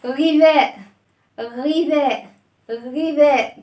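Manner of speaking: غوريلا called out loudly for the class; teacher calling out غوريلا to class; clear repeat. Shown as a demonstration. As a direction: call out غوريلا for kids to repeat. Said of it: "بصوا كده".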